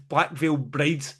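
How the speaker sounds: slow, scornful band name drawn out with contempt; disdainful naming. Real, not acted. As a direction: spit out the band name slowly like a bad taste. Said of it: "what's that fucking terrible band".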